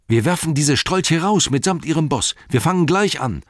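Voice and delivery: high, loud rallying cry; rally them to start right away; rousing. A narrator's reading. Sam announcing they will throw the ruffians out, high rousing voice.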